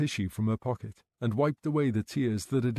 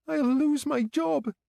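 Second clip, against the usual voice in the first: tearful; 3 dB louder, slower than usual. A narrator's reading. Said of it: "Tears pooled in Gemma's eyes".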